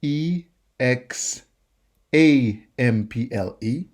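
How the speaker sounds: spelled out letter by letter, English letter names; English spelling. Shown as a demonstration. Teacher spelling the English word aloud, letter by letter. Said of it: "but in French".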